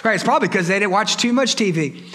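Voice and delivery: mild fed-up complaining, pitch often lifted; lightly acted exasperated disciple. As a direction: grumble about other people's unruly kids. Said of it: "That's what the disciples do".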